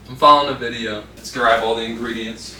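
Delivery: talking while chewing gum; words around a wad of gum. Real, not acted. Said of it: "ignore the gum chewing".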